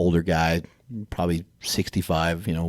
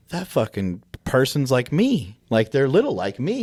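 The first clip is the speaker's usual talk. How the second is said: put-on child's awed voice; 5 semitones higher than usual. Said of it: "they're like".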